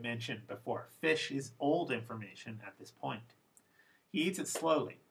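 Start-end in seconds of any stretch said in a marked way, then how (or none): 4.1-5.0 "slowly" pitched higher as the focus; stress on slowly. Shown as a demonstration. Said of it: "Slowly is the last bit of new information".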